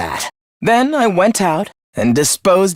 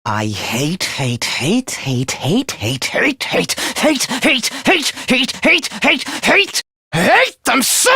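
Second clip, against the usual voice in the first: building hatred; 5 semitones higher, slower than usual. Acted. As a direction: repeat it obsessively, rising into a shout. Mounting rant of hatred.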